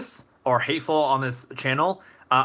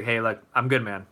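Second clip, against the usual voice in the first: calm; faster than usual. Acted. Streamer answering someone who wants to fight, calmly. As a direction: talk a hothead down without pushing back. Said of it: "I would just calmly say".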